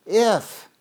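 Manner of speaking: "If" punched high and loud; emphatic stress. Shown as a demonstration. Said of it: "I'm gonna emphasize a couple words here".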